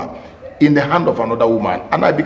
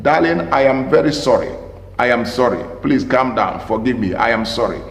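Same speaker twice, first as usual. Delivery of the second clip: soft apology; 2 semitones lower than usual. Shown as a demonstration. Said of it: "Use the right choice of words".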